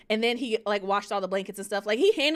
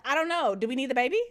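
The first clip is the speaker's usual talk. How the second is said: higher, hesitant mock wimp; wimpy self; 3 semitones higher, faster than usual. Would-be mom facing a spider, mock wimp. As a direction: play your own cowardly side, pitched up. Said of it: "the wimp in me".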